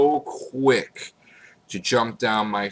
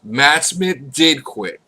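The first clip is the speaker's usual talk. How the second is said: mock shock; 4 semitones higher, 4 dB louder, slower than usual. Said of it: "you find out".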